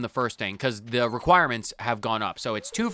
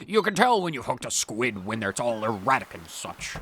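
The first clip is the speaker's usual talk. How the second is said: lightly voiced pirate reading. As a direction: read it like an old sea pirate. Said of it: "Gotta do a pirate voice".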